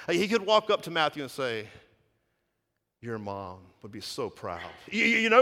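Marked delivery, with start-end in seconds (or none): 3.0-4.7 low, soft and slow; a gentle sarcastic compliment; hushed mock tribute; soft mock praise. Mock hypothetical Jesus line.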